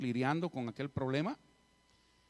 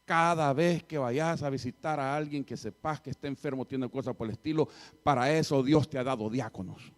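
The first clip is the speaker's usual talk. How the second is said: scolding teacher; 5 dB louder than usual. Retold or imitated.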